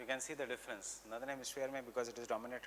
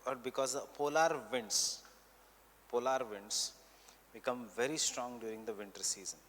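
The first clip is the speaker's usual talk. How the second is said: measured note-giving, repeating phrases for writers; teacher dictating notes for students to copy; classroom dictation; slower than usual. Real, not acted. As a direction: dictate in short chunks with long pauses.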